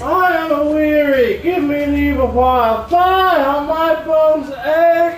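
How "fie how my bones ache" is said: aching complaint. Acted. Nurse complains of aching bones.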